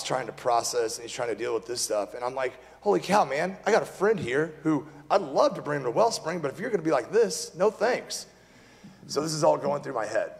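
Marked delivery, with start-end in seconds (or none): 2.8-8.3 livid. Retold or imitated. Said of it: "I'm livid right now".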